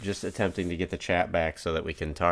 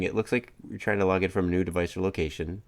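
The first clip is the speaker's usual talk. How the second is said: flat robotic readout. Acted. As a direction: read it like a robot voice. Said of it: "or are you doing a robot voice and telling?".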